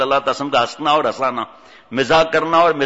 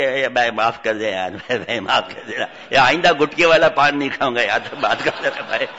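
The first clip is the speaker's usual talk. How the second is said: pleading passenger; 5 semitones lower than usual. Acted. Passenger begs pilot not to throw him out, lightly voiced pleading. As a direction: beg for mercy like a scared troublemaker. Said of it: "اب جناب وہ دروازے کے بعد کہ".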